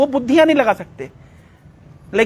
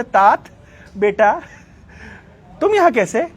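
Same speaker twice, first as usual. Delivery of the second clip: motherly questioning; slower than usual. Retold or imitated. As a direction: imitate a mother questioning her son. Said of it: "भागवत बोल रहे". (बेटे से ममता भरा सवाल)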